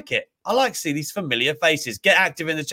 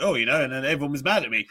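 imitating Hogan; faster than usual. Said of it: "this is the way he says it".

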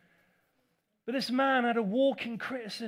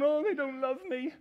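mock self-pity; 2 semitones higher, 4 dB louder than usual. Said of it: "I'll be up and down thinking".

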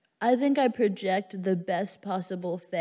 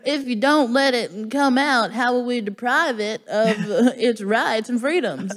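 laughing mock outrage; 4 semitones higher, 5 dB louder than usual. Playing along with the Texan bit.

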